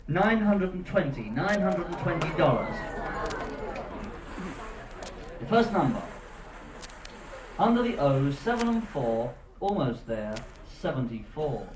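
bingo caller. Real, not acted. Cruise bingo caller calling numbers.

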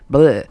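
low, short "bleh" of disgust; grossed-out bleh. Real, not acted. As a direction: spit out a yucky noise. Disgust at her gross meal.

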